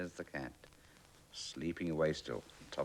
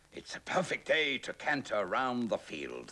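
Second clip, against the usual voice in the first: higher, louder horse voice; 8 semitones higher, 5 dB louder than usual. Acted. Horse cantering round the field, higher and louder. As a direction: sing it out like a frisky horse. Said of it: "thought the horse".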